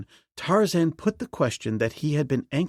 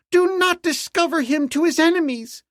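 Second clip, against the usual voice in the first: high, loud urgent plea; beseeching; 5 dB louder than usual. A narrator's reading. Slave girl begging the princess to protect him. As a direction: beg her to keep the stranger hidden. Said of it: "she beseeched".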